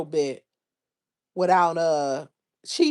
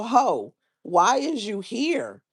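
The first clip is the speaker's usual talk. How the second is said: slightly higher, drawn-out put-on accent; Jocelyn voice; 4 semitones higher, slower than usual. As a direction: lightly put on a slow accent, pitched up. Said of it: "in my Jocelyn voice".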